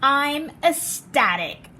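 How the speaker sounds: slow, bright-eyed thrill on ecstatic. Acted. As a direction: savour the joy, stretch it out. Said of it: "That's a fancy word for happy".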